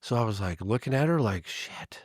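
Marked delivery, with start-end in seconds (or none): 1.5-2.0 breathy whispered "shit" under the breath; retold dismayed whisper; whispered curse. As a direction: mouth it, caught out. Caught out, silent reaction.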